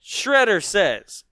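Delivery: ordinary talk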